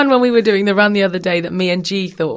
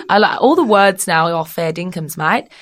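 playful put-on Aussie accent; Australian accent; 3 dB louder than usual. British guest showing off to Australian host, put-on Aussie accent. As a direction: imitate broad Aussie slang and vowels. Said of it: "very good accent".

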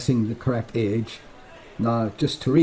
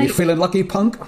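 Clint Eastwood quote; 5 semitones higher than usual. Retold or imitated. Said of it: "No, that's Clint Eastwood".

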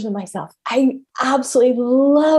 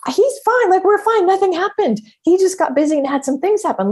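mock self-reassurance; 8 semitones higher than usual. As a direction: insist everything is fine, too brightly. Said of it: "This time I was like".

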